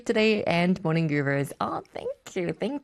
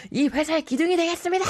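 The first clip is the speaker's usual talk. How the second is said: 1 toast pledge; 11 semitones higher, much faster than usual. Retold or imitated. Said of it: "막 이러면서".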